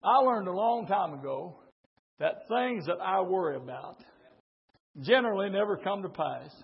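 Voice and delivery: low, soft personal advice; hushed, low-pitched aside after preaching; quiet confiding. Real, not acted. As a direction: drop right down and confide it.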